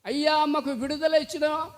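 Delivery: mourners wailing. Retold or imitated. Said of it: "అని వాళ్ళు కేకలేస్తా ఉంటే, ఏడుస్తా ఉంటే".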